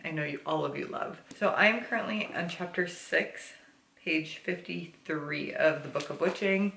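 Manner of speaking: lisping through retainers. Real, not acted. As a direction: talk with a retainer lisp. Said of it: "you get the lovely lisp".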